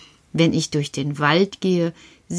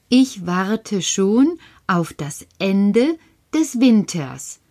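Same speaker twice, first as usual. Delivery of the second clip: "Winters" said slowly and carefully; slow, deliberate re-say of "Winters"; careful correction; slower than usual. Shown as a demonstration.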